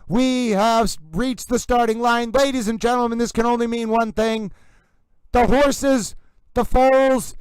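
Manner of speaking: hammed-up race caller building to the start; horse racing announcer. Stream host announcing court is starting, mock race announcer. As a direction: call the horses to the gate like a track announcer. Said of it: "I've taken on the intonation of a horse racing announcer".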